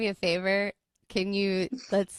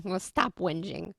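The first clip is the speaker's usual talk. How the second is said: teasing with a laugh. Pretend. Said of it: "I'm gonna use that with my husband".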